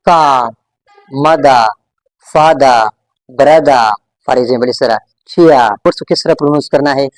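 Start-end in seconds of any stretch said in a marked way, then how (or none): 0.1-3.9 British non-rhotic endings, each word falling; silent final R. Shown as a demonstration. Teacher modelling British endings for students, silent R. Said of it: "we just keep that R silent". 5.3-5.7 चिया ending in an open vowel, no R; silent final R. Shown as a demonstration. Teacher giving students another example, silent R. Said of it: "we just keep that R silent".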